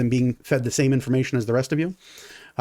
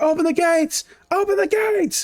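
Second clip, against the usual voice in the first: much higher, shouted order echoing off walls; guards yelling. Acted. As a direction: call it out across the yard.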